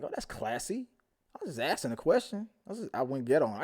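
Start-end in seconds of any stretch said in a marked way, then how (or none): 0.0-0.9 sarcastic. Retold or imitated. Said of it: "And I was like".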